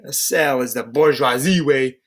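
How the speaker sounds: accidental Russian accent on bourgeoisie. Real, not acted. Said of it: "I think I did a Russian accent there now".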